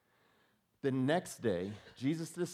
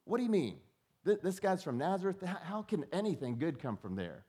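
incredulous scoff; 7 semitones higher than usual. Acted. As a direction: sound as if it's absurd. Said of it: "That's his response".

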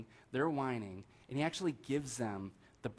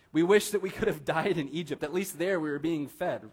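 a hint of whiny complaining, louder; grumbling Israelites; 4 semitones higher, 5 dB louder than usual. Pastor voices the Israelites grumbling about Egypt, mildly whiny. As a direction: voice the people's grumble with a mild whine. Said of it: "did you hear the words that they said".

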